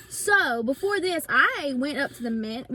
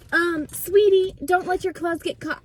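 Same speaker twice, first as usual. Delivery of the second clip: higher, louder, slow sugary talking-down voice; mock condescending sweetie; 5 semitones higher, 5 dB louder than usual. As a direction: imitate a clerk treating you like a toddler. Condescending saleslady mimicked.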